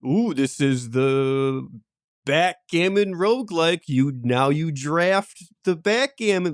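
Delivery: mock hype. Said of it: "which is just like".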